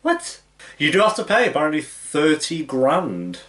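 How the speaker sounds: high, loud disbelief, slowing at the end; real shock. Real, not acted. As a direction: react aghast at the price. Shocked reaction to the price.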